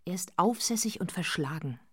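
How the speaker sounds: whispered, voiceless aside; confiding whisper. Acted. Wife confides to her husband about the kitchen boy in a whisper. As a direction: whisper it so only he hears.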